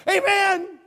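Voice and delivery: high, laughing amen, slow; John eager and laughing. Retold or imitated. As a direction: cheer it on with a laugh. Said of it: "And John's like".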